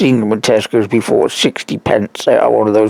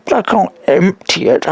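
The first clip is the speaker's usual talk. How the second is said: indignant retort; 8 semitones higher than usual. Retold or imitated. Retorting to nurses.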